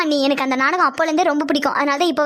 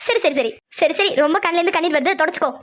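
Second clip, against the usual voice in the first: teasing. Acted. Girl tells tearful onion cutter to wipe up, teasing. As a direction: humour him with fake sympathy. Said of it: "சும்மாவே கலாய்ப்பா".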